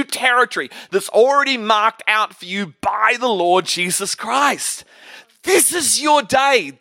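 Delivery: rally the congregation, hammering each phrase; rousing preaching. Real, not acted.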